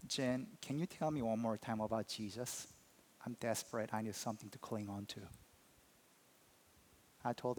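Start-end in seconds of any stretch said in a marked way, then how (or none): 0.1-5.2 desperate plea. Retold or imitated. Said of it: "He's, like, crying, yelling, and he just says".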